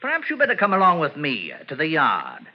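put-on English police accent, polite and proper; a crook faking an English accent to pass as a police sergeant; fake English accent. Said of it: "What became of your English accent?".

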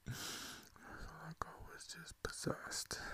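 very soft, slow, breathy confession; drained, drawn-out hush; haunted whisper. Acted. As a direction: whisper it slowly, deeply shaken. Shaken confession after the nightmare.

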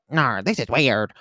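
slow mock Southern accent. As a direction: drag it out in a put-on Southern accent. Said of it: "that's my Southern accent".

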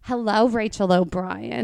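mock New Jersey mobster hello; hammed-up New Jersey greeting; Jersey accent. Shown as a demonstration. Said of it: "Jersey accents for this".

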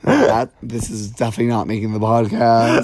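amused disbelief. Real, not acted. Laughing at the cohost's racist joke.

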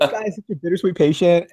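words breaking into laughter; laughing while talking. Real, not acted. Remembering a kind patient on the podcast, laughing. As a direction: laugh through the line. Laughing through emotional story.

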